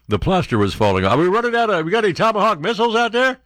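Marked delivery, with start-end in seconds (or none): 1.1-3.4 higher, teasing heckler's call; mock heckle at the president; mock reporter heckle. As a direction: needle him like a heckling reporter. Mocking heckle at Trump.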